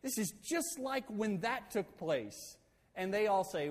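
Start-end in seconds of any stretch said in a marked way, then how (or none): 0.0-2.6 retold indignant refusal, higher pitch; fired up. Moses refusing to be left to fight alone, fired up. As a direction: act out a worked-up objection. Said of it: "Moses is fired up".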